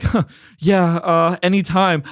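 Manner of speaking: mildly flustered, halting reply; retold nervousness. Storyteller answers the grateful woman, mock-nervous stammer. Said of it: "I was so nervous".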